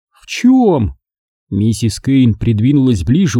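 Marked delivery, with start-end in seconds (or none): 0.1-1.0 higher, nervous question; a hint of anxious Margo. A narrator's reading. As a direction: lean in, worried.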